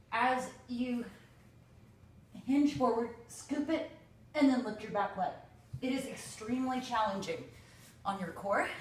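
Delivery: breathless, straining through the words; talking while winded from effort; out of breath. Real, not acted. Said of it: "That's why I'm out of breath".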